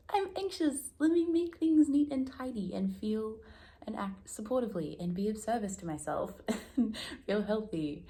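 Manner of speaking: high, tight voice that rushes to tidy up; anxious Virgo voice. Retold or imitated. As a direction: imitate a fretful perfectionist. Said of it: "That's very, like".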